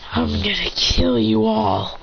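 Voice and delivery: slow, drawn-out threat; acted vengeful menace; menacing threat. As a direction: threaten them slowly. Avenger threatens the group.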